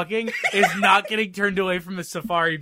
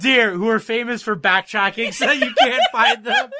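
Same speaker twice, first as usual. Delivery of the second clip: laughing sarcasm; 3 semitones higher, 6 dB louder than usual. Real, not acted. Sarcastic rant about deer.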